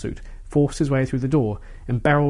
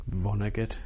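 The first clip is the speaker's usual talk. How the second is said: softer, lower muttered name; 4 semitones lower, 7 dB quieter than usual. A narrator's reading. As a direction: mutter it under your breath. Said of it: "the professor muttered".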